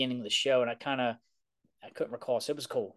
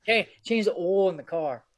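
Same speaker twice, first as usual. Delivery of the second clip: slow, higher Baltimore drawl; Baltimore accent; 5 semitones higher, 4 dB louder than usual. Shown as a demonstration. Cohost showing how locals talk, slow Baltimore accent. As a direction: stretch "oil" the Baltimore way. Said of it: "it's just the way we say it".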